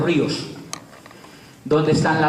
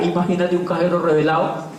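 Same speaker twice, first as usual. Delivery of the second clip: usual speaking voice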